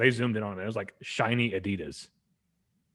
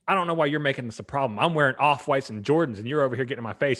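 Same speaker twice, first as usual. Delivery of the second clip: fast, louder, higher complaint; mock heated outburst, rushed; retold aggressive rant; 5 semitones higher, 6 dB louder, faster than usual. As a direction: imitate an owner arguing heatedly. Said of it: "The guy got real aggressive with them".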